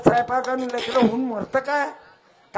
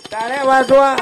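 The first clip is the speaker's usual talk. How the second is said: louder, rousing call to clap; 9 dB louder than usual. Real, not acted. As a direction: shout it to the crowd. Calls again much louder.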